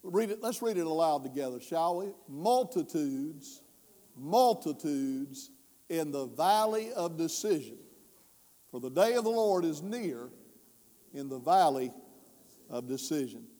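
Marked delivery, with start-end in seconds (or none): 2.3-13.5 scripture reading. Acted. Reads scripture aloud together.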